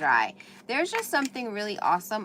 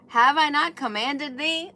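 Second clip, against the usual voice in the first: loud, higher pitch, stress on I; emphatic scripture; 6 semitones higher, 7 dB louder than usual. Acted. Driving home God's command to her viewers, loud and emphatic. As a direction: proclaim the question with force.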